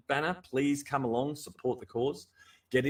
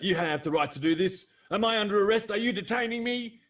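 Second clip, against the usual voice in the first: mock sovereign citizen; 8 semitones higher, 4 dB louder than usual. Mocking confrontational YouTube citizen.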